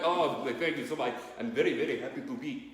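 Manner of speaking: put-on Dracula accent slipping toward Indian; botched Dracula accent. Dracula accepting an Oscar, accent slipping into Indian. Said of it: "That was like an Indian accent".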